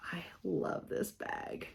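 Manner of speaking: breathy whispered aside, slow; 轻声耳语. Real, not acted. Admiring bag, whispered aside.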